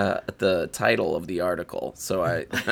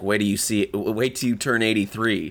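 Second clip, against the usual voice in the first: ordinary talk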